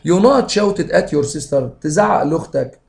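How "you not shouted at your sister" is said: slow dictation. Shown as a demonstration. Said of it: "teacher reads exam sentence".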